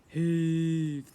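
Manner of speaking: loud strained goblin heave; goblin grunting heave. Acted. Goblin servants straining at the chariot, loud heave. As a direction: heave it like hauling a load.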